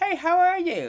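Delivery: very high, loud put-on puppet character voice. Showing how the unfinished crocheted figure seems to talk: voice the puppet seems to have. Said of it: "He kinda looks like he talks like this".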